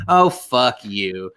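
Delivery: drawn-out contemptuous oh, fuck you; mock disgust at a teary pundit; slow disgusted scoff. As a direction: sneer it slowly at the TV. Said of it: "I was like".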